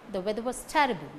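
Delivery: "weather" and "terrible" stressed, quick weak "was". Shown as a demonstration. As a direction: hit "weather" and "terrible", hurry the rest. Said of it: "These words carry stress".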